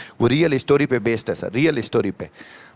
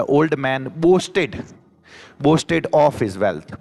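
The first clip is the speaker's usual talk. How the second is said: very slow model phrase; much slower than usual. Shown as a demonstration. Teacher repeating phrase very slowly.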